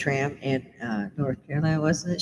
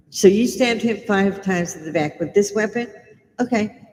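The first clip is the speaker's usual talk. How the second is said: sarcastic, raised mock-cop questioning; mock polite cop; 5 semitones higher than usual. Mocking police questioning killer.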